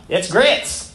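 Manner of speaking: lightly put-on Southern US waitress accent; drawn-out Southern twang on a waitress's line. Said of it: "in a southern voice".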